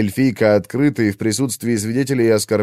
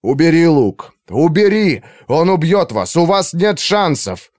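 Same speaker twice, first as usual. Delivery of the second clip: higher, louder desperate shouting; urgent shout; 7 semitones higher, 4 dB louder than usual. Acted. Arthur yells at Valira. (Артур кричит Валире убрать лук)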